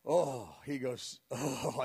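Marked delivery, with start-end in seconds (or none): 0.0-0.5 low "oh", imitating someone overcome; low dramatic moan; trembling groan. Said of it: "he was trembling". 1.3-1.8 low "oh", imitating someone overcome; low dramatic moan; trembling groan. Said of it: "he was trembling".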